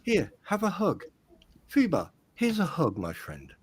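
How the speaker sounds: mock-tender, with falling phrase ends; sending love. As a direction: offer a hug to a troll, playfully loving. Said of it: "just send love. Just go".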